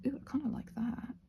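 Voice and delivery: soft whispered ooh of approval; whispered delight. Real, not acted. Crafter whispering delight over a pendant colour. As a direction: breathe it like a happy secret.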